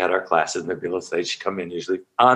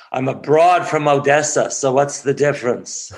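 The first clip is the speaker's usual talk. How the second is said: put-on playful Jewish accent, raised and punchy; 3 semitones higher than usual. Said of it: "with her Jewish accent".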